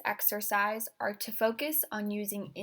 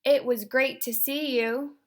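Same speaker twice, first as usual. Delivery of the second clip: intense delivery; 3 semitones higher, 5 dB louder than usual. Shown as a demonstration. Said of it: "The first one will sound like this".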